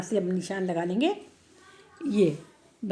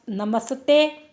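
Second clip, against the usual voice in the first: नमस्ते drawn out syllable by syllable; slow model reading; 2 semitones higher, much slower than usual. Shown as a demonstration. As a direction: read नमस्ते slowly for the class. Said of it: "slow model reading". (नमस्ते को बहुत धीरे बोलना)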